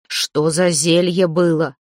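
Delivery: a slow menace from beyond the grave; dead man's voice. Acted. Dead Veres threatens Zateya, slow and menacing. Ghost interrogates.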